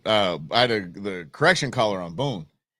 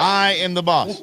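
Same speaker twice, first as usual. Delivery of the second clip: dog boss voice; 6 semitones higher, 3 dB louder, slower than usual. Retold or imitated.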